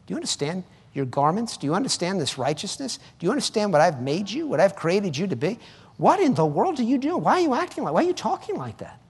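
exasperated questions, climbing in pitch; God, frustrated. Acted. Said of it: "Think of how frustrating that is for God".

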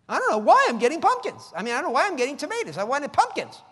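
high whiny complaining to God; mock whine. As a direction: whine it like a spoiled believer.

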